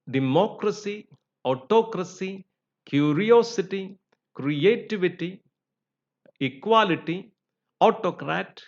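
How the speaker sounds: "democracy, autocracy, curiosity, creativity, equality, autocrat", each punched third syllable from the end; third-from-end stress. Shown as a demonstration. Teacher showing the rule, stress third from the end. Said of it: "third syllable from the end".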